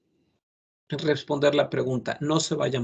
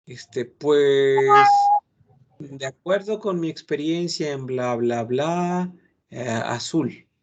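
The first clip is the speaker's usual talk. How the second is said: rambling non-answer; 3 dB louder, slower than usual. Shown as a demonstration. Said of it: "no digan".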